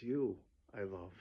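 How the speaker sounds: tender declaration. Acted. King forgiving the man who cared for him, tender. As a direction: let it drop to a gentle confession.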